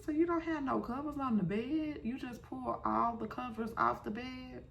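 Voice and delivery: shrieked high, fast, disbelieving questions; incredulous disbelief. Retold or imitated. Viewer asking the bride about her bare bed, high and disbelieving. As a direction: pitch way up, like you can't believe your ears. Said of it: "And I'm like".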